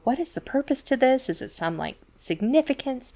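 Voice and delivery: put-on curious young Dalinar. Young Dalinar asks the master why, pitched high.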